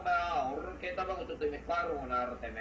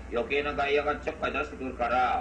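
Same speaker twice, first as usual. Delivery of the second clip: loud; 6 dB louder than usual. Real, not acted. Rival loudly lays down terms.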